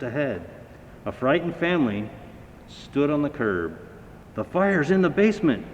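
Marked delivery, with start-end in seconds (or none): 4.3-5.6 much higher, louder alarmed call; shouting parents. A narrator's reading. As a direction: parents calling to the firemen. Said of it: "shouted their father and mother".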